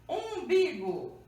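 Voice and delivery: "umbigo" drawn out slowly with a nasal U; U nasal com til. Shown as a demonstration. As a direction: stretch "umbigo", its "um" one nasal vowel. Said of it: "como se fosse o U com o tio". ("umbigo" bem devagar, com U nasal)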